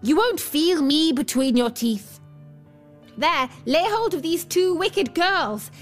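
high, desperate storybook begging; terrified pleading. A narrator's reading. Dwarf begging the bear to spare his life, terrified pleading. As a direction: plead high, peaking on each cry for mercy. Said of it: "Then he cried in terror".

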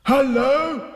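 high, loud happy call; bright boyish holler of joy; joyful shout. A narrator's reading. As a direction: shout a delighted greeting. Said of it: "he shouted joyfully".

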